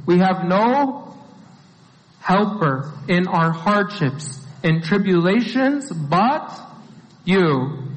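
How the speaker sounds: slow, spaced-out reading with pauses; slow deliberate restatement. Shown as a demonstration. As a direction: lay out each phrase slowly and clearly. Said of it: "It's a very clear statement".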